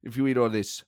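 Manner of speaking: put-on German football manager; comic German manager voice; Thomas Frank. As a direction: grumble in a German-accented impression. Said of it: "It's a good impression".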